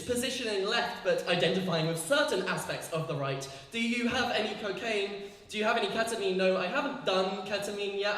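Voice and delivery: steady, measured performance poetry; poem reading. Acted. Poet reading her poem to the audience. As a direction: read it like a spoken-word poem.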